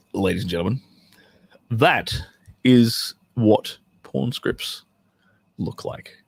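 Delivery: very slow, fading to a breathy hush; mock-solemn closing; dramatic reveal. Real, not acted. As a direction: draw out the punchline.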